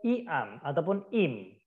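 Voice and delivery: I AM said "ee am", then IM as "eem"; read as spelt. Shown as a demonstration. Teacher showing possible misreadings, read as spelt. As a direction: slowly read I AM and IM with Indonesian vowels. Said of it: "Tapi tulisannya bagaimana".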